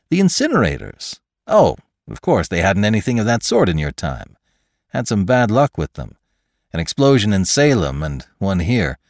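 lively, lilting explanation; informative scientist McClure. Acted. Scientist tells Lantry about the incinerators, lively and helpful. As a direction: explain with surprised, helpful eagerness.

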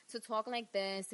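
lightly shown Queens accent. Shown as a demonstration. Wrestler showing the accent she dropped, Queens accent. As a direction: slip into a New York Queens accent. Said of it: "get the accent away".

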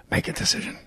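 whispered impression; soft unvoiced line. Shown as a demonstration. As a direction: breathe Make a decision as a whisper. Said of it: "Very few people do the whisper".

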